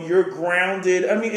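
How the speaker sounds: ordinary talk, nothing marked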